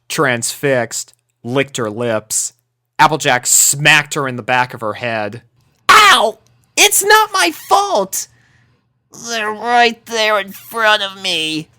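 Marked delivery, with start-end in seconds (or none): 5.9-11.7 high, slow defensive whine; a mock-hurt protest, much higher; defensive grumble. A narrator's reading. Dash defending herself after a smack, high slow defensive whine. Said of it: "she grumbled defensively".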